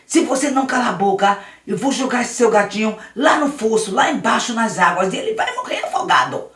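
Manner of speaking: lightly voiced cruel older boy; bully threat. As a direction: Luiz threatening to drown the cat. Luiz threatens the cat.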